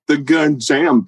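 laughing in disbelief. Real, not acted. Guest retelling how the gun jammed, laughing. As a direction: laugh through the words at the absurdity.

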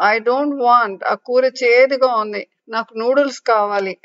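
put-on whiny child. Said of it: "అంటూ food ప్లేట్ని తోసేస్తుంది".

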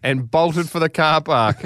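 measured, theatrical read-aloud; deliberate storytelling delivery; story narration. A narrator's reading. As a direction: read it like a grand tall tale.

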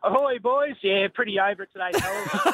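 cheery, upbeat greeting; real chipper. Real, not acted. Courier phoning the radio hosts about a bad day, chipper. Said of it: "you sound like a chipper under it kind of guy".

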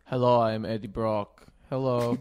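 imitating an action star's accent, stiff and deadpan; mock Dolph Lundgren accent. Podcast host imagines Dolph as Eddie Brock, mock accent. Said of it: "I don't even know if they has that accent".

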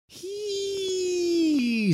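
a high wailing call from nowhere; eerie faraway spirit cry; distant ghostly voice. A narrator's reading. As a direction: cry it out like a phantom far off. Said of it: "said a voice".

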